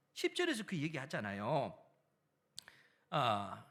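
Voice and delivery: usual speaking voice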